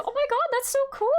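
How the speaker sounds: high, fast gush of delight; thrilled for the viewer; excited. Real, not acted. Streamer gushing high and fast at a viewer's voice acting plans. Chat says they want voice acting.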